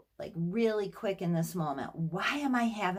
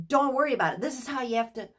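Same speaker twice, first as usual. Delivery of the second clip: higher and louder mock snap; mean imitation; 5 semitones higher, 5 dB louder, much faster than usual. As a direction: imitate him getting snappy and mean. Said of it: "like, mean, kinda".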